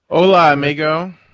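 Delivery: grunting. Co-host returns the host's greeting at the start of the podcast, grunted. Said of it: "I heard you kind of grunted that".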